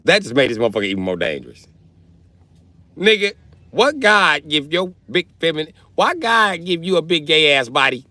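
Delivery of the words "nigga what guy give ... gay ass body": high-pitched, hammed-up disbelief; incredulous outcry. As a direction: exclaim it high in comic disbelief. Mock outcry at officer's huge size.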